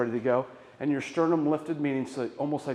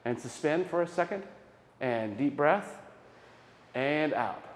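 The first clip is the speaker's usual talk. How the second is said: guided breath. Shown as a demonstration. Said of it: "So here we go".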